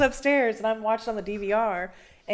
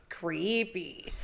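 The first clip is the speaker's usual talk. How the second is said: lightly voiced eerie spirit, slower and softer; imitated spirit voice; 3 semitones lower, 6 dB quieter than usual. Investigator retelling what the spirit box said, imitated spirit voice. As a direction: draw the word out softly, imitating a ghostly voice. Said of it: "a voice came through clear as day and was like".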